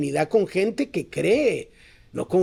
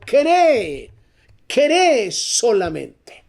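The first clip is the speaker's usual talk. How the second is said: raised, insistent preacher's pitch; full-force preaching; 5 semitones higher, 4 dB louder than usual. Real, not acted. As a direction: build to ringing, stretched-out commands.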